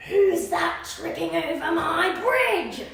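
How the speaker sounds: slow, loud troll growl; slow booming troll. Acted. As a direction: menace the goat from under the bridge. Troll challenges goat on bridge.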